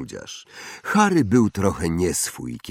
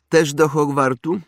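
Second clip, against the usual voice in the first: put-on higher, louder haughty boy voice; snobbish boy; 9 semitones higher, 5 dB louder than usual. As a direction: play a spoiled rich boy. (wyższy głos zarozumiałego chłopca)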